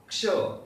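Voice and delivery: "Ksha" said as one sound, a light k straight into sh; "Ksha": begin the k, never finish it, then slide to sh; "Ksha" as one blended syllable, k cut short into sh; ksha sound demo. Shown as a demonstration. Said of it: "Just start with k and say sh".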